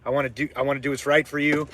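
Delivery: easygoing and deferential, smoothing things over; calm, submissive. Retold or imitated. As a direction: demonstrate a mild, placating tone. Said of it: "like, very calm, submissive".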